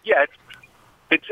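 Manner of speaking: noisy phone line, words cutting out; radio breaking up. Real, not acted. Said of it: "like you're in a helicopter".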